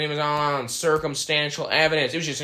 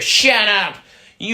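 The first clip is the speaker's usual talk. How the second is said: furious yell, higher and louder; angry shout; 6 semitones higher, 4 dB louder than usual. Acted. Anarchist guest yelling at the host, furious shout. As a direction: snap at the host with full anger.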